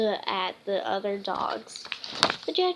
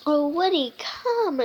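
calling out; 4 semitones higher than usual. Acted. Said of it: "called Holly".

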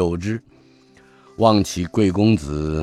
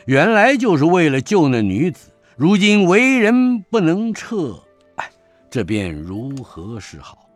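troubled lament. Acted. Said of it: "那军官说".

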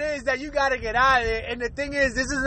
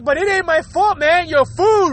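defensive blaming; 4 semitones higher than usual. Acted. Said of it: "you're like".

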